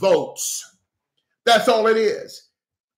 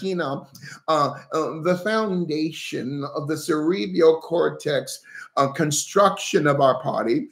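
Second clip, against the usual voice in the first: lower, rambling word-salad politician voice; mock her rambling speeches in a put-on lower voice; mocking Kamala Harris; 5 semitones lower than usual. Pastor mocking Kamala Harris to his viewers, in a lower rambling mimic. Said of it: "this is how she talks".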